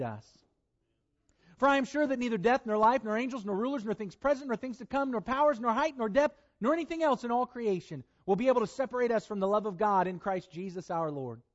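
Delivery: reading Romans aloud with mounting preacher's fervor; scripture reading. Acted. Preacher reading Romans to his church, rising conviction. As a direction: proclaim the verses to the congregation, building.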